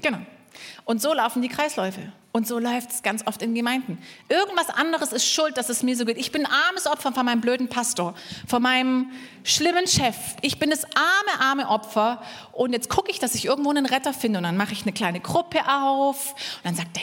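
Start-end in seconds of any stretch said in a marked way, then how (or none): 4.3-12.2 mock woe, stretching the pity; self-pitying victim. Preacher imitates victim blaming pastor and boss, self-pitying. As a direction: wallow in being the victim.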